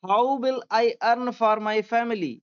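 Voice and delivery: very slow, word by word dictation; slow classroom reading aloud. Shown as a demonstration. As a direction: read it out slowly for students to follow. Woodcutter's lament dictated slowly.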